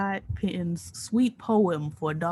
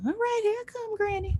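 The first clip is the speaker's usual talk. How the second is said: high, sing-song granny call; grandma voice; 14 semitones higher than usual. Retold or imitated. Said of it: "my grandma stayed talking about".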